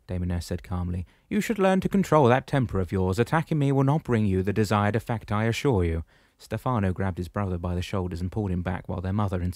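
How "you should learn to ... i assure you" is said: higher, louder commanding shepherd voice; booming old shepherd, pitched up. Acted. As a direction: address him firmly from above. Damianos speaks, voiced figure.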